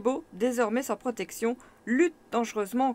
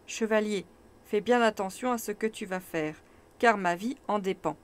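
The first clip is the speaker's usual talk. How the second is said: avec douceur. Acted. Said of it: "avec une surprenante douceur".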